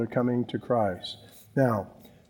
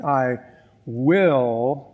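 "will" held and lifted at the end; stress on will. Shown as a demonstration. Pastor showing his congregation which word matters, leaning on "will". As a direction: lean into "will", drawn out with a rising tune. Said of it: "emphasis on will".

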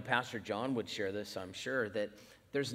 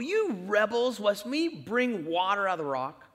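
louder, higher angry yell at the people; Moses yelling; 5 semitones higher, 6 dB louder than usual. Retold or imitated. Moses yells at the complaining people, loud and angry. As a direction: bellow it like a furious leader. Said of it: "he yells at the people".

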